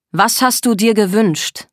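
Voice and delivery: slow, insistent question; demanding. Acted. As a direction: press hard for the answer. Er schlägt auf den Tisch. (fordernd, nachdrücklich)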